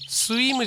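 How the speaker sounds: "スイム" as Japanese su-i-mu; each kana of "スイム" separate, no w; katakana mispronunciation. Shown as a demonstration. Teacher shows the wrong "スイム", Japanese-style syllables. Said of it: "スイムじゃないですよ".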